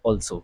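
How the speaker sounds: "also" opening on a rounded AWL; rounded "aw" vowel in "also"; correct pronunciation. Shown as a demonstration. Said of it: "सही उच्चारण है वो है also".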